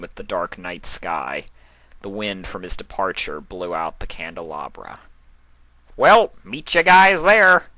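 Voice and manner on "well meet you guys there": much higher, louder and slow sing-song; a cheery sing-song farewell; chiming Discord. A narrator's reading. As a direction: chime it out brightly as a goodbye. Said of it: "Discord chimed".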